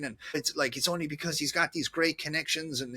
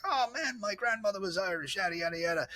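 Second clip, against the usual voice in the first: higher, fast, chummy shopkeeper voice; wine seller quoted; 6 semitones higher than usual. Retold or imitated. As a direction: play the friendly wine guy greeting a regular. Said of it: "He's like".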